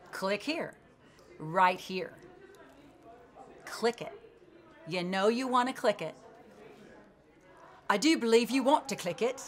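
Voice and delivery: put-on English accent. Comedian urging viewers to click, soft English accent. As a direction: tease them into clicking, lightly English. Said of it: "I'm all of a sudden English".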